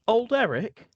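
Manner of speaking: put-on very high, surprised old woman; Marion's voice. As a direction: lift way up in recognition. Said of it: "She says".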